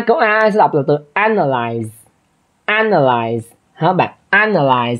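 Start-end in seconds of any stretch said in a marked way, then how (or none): 1.1-1.9 analyze opening on a wide "æ" as in cat; flattened E vowel. Shown as a demonstration. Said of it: "Cái âm E bẹp này nè". 2.7-3.4 Analyze with a wide "æ" on the stressed first syllable; flattened E vowel. Shown as a demonstration. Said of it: "Cái âm E bẹp này nè". 4.3-5.0 Analyze with "æ" as its first vowel; lower-pitched model of Analyze, first syllable stressed; flattened E vowel. Shown as a demonstration. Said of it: "Cái âm E bẹp này nè".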